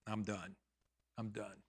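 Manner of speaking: low, hushed giving up; soft, drained finality; resigned. Retold or imitated. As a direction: drop the voice in defeat. Retelling his moment of giving up.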